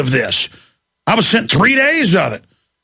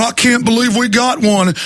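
mock panicked excitement; 5 semitones higher than usual. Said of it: "start hyperventilating and going".

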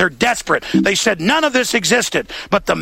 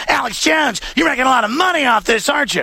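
higher, fast mock jab at a rival; mocking accusatory reporter; 4 semitones higher than usual. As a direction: sneer it out like a gotcha reporter. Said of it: "these guys are like".

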